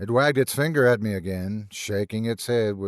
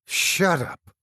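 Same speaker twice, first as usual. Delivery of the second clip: hollow tremulous shout; 7 semitones higher than usual. A narrator's reading. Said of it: "came out hollow and tremulous".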